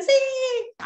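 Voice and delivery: very high Sí breaking into laughter; high, giggly, delighted cloud yes; laughing yes. Shown as a demonstration. Teacher voices the clouds answering.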